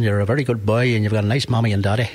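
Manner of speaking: lightly imitated northern Irish accent, quick; a hint of a northern Irish Santa. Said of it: "had a northern accent".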